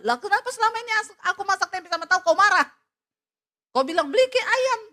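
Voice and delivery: high, loud, fast retort; mock angry wife. Wife turns husband's past anger back on him, loud mock fury. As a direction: throw his old complaint back at him.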